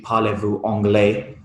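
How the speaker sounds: "Parlez-vous Anglais" said with a real French accent; French pronunciation. Real, not acted. Naming a shoot for the host, "Parlez-vous Anglais" said in French. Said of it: "Not bad French, I must say".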